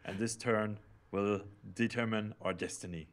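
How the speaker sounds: grandiose leader proclaiming destiny; ranting dictator speech. Pretend. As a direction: speak like a glorious ruler addressing his people. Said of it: "How was that?".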